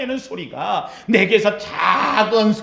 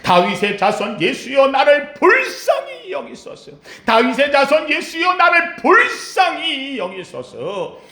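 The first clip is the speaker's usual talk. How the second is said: a blind beggar shouting for mercy; crying out to Jesus; 4 semitones higher than usual. Acted. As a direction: beg for mercy at full voice. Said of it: "소리를 질렀다".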